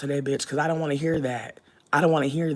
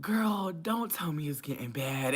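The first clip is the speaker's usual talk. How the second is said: mock plea; 7 dB quieter, slower than usual. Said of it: "But I'm just like".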